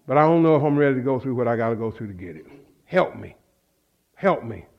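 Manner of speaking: low, soft prayer; humble pleading. Retold or imitated. Preacher confessing his doubts to God, humble pleading. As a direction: sink into a quiet, helpless plea.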